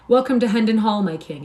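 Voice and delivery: a proud, ringing welcome that drops on my king; joyful exclamation. Acted. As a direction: announce the hall with pride. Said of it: "exclaimed Myles".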